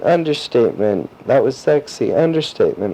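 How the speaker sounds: lightly mimicked yelling; retold playful yell. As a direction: imitate a friend calling out, at moderate volume. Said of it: "Natalie started yelling".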